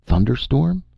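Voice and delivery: high, incredulous yell; yelled question. A narrator's reading. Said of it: "he yelled".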